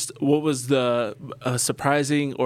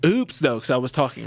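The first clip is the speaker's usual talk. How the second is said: comedian catchphrase; 4 dB louder than usual. Retold or imitated. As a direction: hit the catchphrase hard. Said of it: "he goes".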